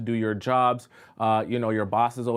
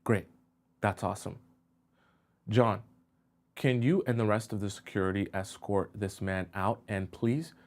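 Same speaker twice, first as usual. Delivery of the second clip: softer, unbothered boss giving orders; cold calm boss; 2 semitones lower, 4 dB quieter than usual. Acted. Boss calmly tells security to remove the coworker, soft and cold. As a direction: dismiss him calmly, as if it's routine. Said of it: "your boss says".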